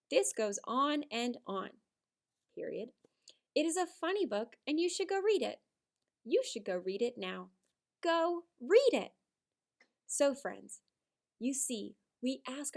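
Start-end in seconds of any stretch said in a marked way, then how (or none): 0.1-9.1 model reading. Shown as a demonstration. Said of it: "more clear and concise way".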